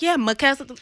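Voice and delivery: "Makesa" with an M instead of an N; mispronounced name. Retold or imitated. Singer mimics people getting her name wrong, lightly. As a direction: say "Makesa" starting on M. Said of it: "people are like".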